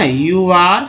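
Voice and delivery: put-on you are a boy stretched very slowly; teacher dictating slowly; slow demo phrase. Shown as a demonstration. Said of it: "जैसे आप बोल देते हैं".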